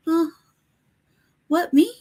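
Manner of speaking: high mock innocent voice; innocent cat. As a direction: play dumb as the cat. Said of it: "Jesse picked him up like".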